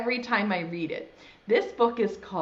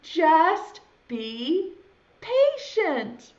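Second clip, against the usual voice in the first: high, loud exasperated refusal; storybook yell; 6 semitones higher, 4 dB louder, much slower than usual. Acted. Friend yells at impatient caterpillar, exasperated. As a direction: yell it in separate, emphatic chunks. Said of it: "his friend yells".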